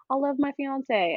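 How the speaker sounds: light country twang; lightly put-on country accent. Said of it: "that's my country accent for the episode".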